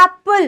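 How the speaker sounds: एप्पल with a stretched, open first vowel; long A vowel. Shown as a demonstration. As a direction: draw out the ए at the start of एप्पल. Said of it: "वो लंबा आता है".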